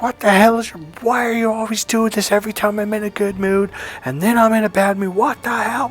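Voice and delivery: high, strained exasperated rant; angry blow-up. Retold or imitated. Boyfriend reenacts blowing up at his girlfriend, angry. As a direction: rant high and fed up, ending in a wail. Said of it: "I blew up at her".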